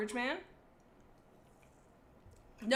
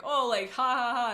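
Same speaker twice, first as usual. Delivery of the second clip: mock laugh; 5 dB louder than usual. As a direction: fake haha, louder. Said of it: "I don't wanna be like".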